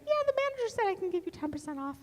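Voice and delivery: put-on high, quick young shop clerk; young saleswoman voice. Young cashier answering a haggling customer, high and hesitant. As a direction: play a flustered teen cashier, voice way up. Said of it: "she's like".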